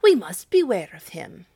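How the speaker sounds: loud warning cry; citizens crying out. A narrator's reading. Frightened citizens warning each other, loudly. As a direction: call out the danger. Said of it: "cried the citizens with one voice".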